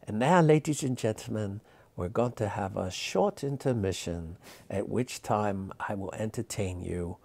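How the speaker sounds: put-on a light Polish accent in a showman's announcing voice; mild Polish accent. Polish magician announcing the intermission to his audience, light Polish accent. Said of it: "he was Polish, so he had a little accent".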